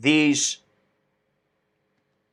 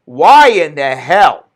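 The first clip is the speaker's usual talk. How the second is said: exasperated hell; 6 dB louder, slower than usual. Real, not acted. Angry rant, first take.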